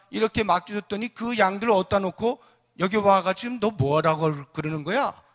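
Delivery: loud scolding, starting high; scolding older brother. Acted. Eldest brother rebukes David for leaving the sheep, scolding. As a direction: tell off a kid brother loudly. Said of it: "책망을 하고 있는 것입니다".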